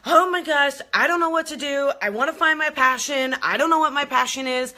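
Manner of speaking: flustered imitation of a worried seeker; mock panic. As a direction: imitate someone spiraling in worry. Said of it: "everybody is like".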